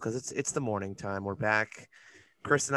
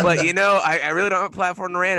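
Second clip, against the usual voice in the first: laughing, higher and louder; 8 semitones higher, 6 dB louder than usual. Real, not acted. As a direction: talk through a laugh. Laughing while protesting.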